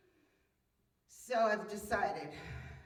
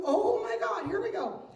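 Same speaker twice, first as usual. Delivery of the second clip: exasperated cry; 11 semitones higher, 6 dB louder than usual. Retold or imitated. Dreading the trip to the motorhome.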